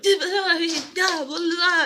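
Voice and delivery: high, loud mock rambling; animated storytelling babble. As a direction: babble excitedly, imitating your own long story. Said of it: "with this long-ass story".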